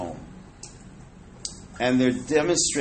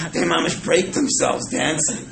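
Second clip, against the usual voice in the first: laughing; 3 semitones higher, 3 dB louder than usual. Real, not acted. Laughing at elderly break dancing.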